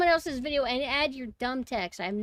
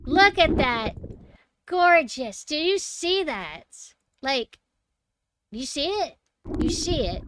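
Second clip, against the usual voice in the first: higher, louder burst of amazement; excited; 4 semitones higher, 5 dB louder, slower than usual. Real, not acted. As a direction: marvel at it out loud. Excited at shark footage.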